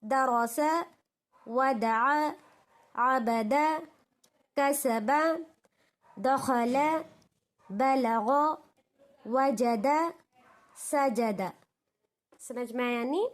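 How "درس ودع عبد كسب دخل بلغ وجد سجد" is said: slow, even syllable chant; sing-song recitation of Arabic spelling; Quran reading drill. Shown as a demonstration. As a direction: spell each letter out like a Qaida teacher.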